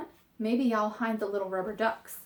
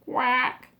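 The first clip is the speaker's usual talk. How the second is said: mother duck quack. Acted. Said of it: "says the mother duck".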